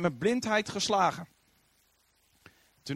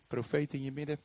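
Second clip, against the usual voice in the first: usual speaking voice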